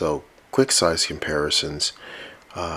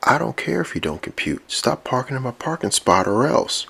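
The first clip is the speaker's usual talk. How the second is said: much higher, annoyed mock voice; angry high-pitched threat; 8 semitones higher, 3 dB louder than usual. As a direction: scold him, voice jumping up. Robot threatens over parking spot.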